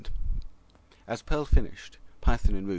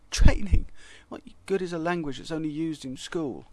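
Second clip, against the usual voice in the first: mocking high voice; 8 semitones higher, 6 dB louder than usual. A narrator's reading. Another language mocks Pascal.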